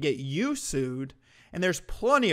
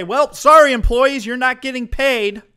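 much higher, loud mock manager voice; mock boss; 8 semitones higher, 11 dB louder than usual. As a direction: ham up a heartless boss. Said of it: "they don't say".

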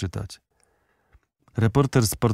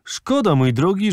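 exasperated shout; 8 semitones higher, 3 dB louder, slower than usual. Acted. Bernard cuts off the valet.

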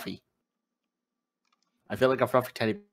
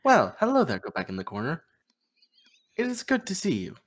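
Baymax voice; 4 dB quieter than usual. Retold or imitated. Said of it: "know I could do Baymax's voice".

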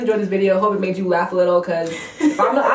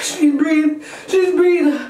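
laughing hard; 8 semitones higher, slower than usual. Real, not acted. Laughing fit after pepper.

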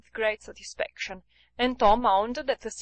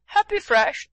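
louder, higher mock groan; hammed-up teasing groan; comical groan; 7 semitones higher, 6 dB louder than usual. A narrator's reading. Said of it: "said Tom with a comical groan".

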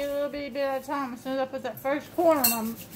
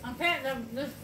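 talking through a mouthful; muffled by dry crackers; mouth full of crackers; 4 dB quieter, slower than usual. Real, not acted. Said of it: "the stuff in my mouth's already gone".

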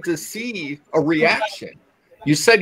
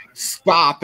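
mild demonic voice. Retold or imitated. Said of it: "like, dark demonic voice go".

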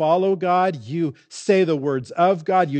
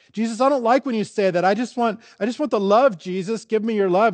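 higher-pitched, lightly acted protest; mock complaint; 6 semitones higher, faster than usual. Believer balking at what Jesus said, mock complaining. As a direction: protest quickly and high, like a balking follower.

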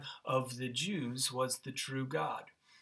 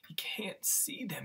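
hushed; 7 dB quieter than usual. Real, not acted. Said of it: "pastor hushes about Elijah".

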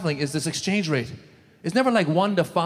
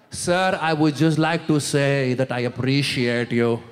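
earnest gratitude; 5 semitones lower, slower than usual. Retold or imitated. Slow earnest thanks voiced.

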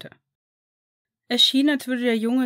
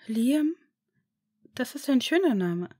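put-on higher, hesitant child's voice, stammering in disbelief; disbelieving boy; 5 semitones higher than usual. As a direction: ask as if afraid to hope. Boy muses on his name. (höhere, zögernde Kinderstimme, ungläubig)

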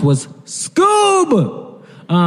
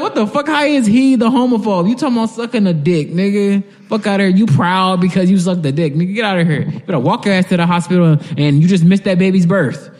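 high, incredulous comic rant; mock outrage; 5 semitones higher than usual. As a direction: tell off the character in high-pitched disbelief.

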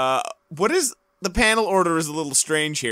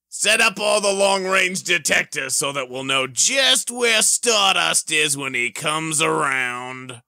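slow, scheming comic-book villain; hammed-up villain plotting aloud; slower than usual. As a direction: read it like a gloating mastermind. Villain Rip reads his scheme.

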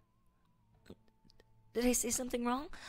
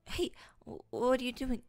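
startled; 2 semitones higher, 3 dB louder than usual. Acted. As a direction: caught off guard in the dark. TV suddenly switched off.

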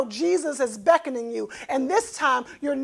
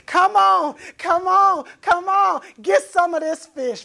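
shouted high calls to partners; calling out; 6 semitones higher, 7 dB louder than usual. Retold or imitated. Simon shouting to his partners to come help, loud. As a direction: yell across the water for help.

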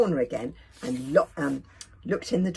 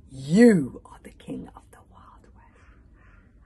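slow spooky whisper; 10 dB louder, much slower than usual. Acted. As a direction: breathe it slowly like a prophecy. Fortune paper read out.

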